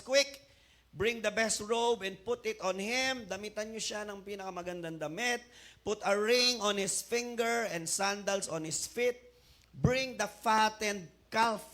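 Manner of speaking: loud, eager orders to the servants; urgent command. Acted. Father urging servants to hurry, loud eager command. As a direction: call out the orders with excitement.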